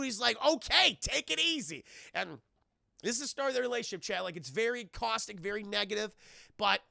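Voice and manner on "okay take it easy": taken aback. Acted. Acts rescuer backing off from outburst.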